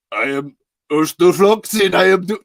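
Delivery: thick mock Russian accent; Urstel Floxen. The speaker introducing a new character, shaky attempt at a Russian accent. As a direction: imitate a game master's heavy Russian character voice. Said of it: "setting up this Russian accent".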